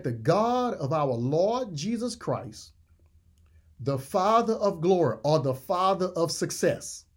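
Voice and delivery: measured reading, weighing each phrase; slow, deliberate preacher's reading; slow scripture reading. Real, not acted. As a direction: read slowly and deliberately, pitch a little lifted. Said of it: "we're gonna read this slowly".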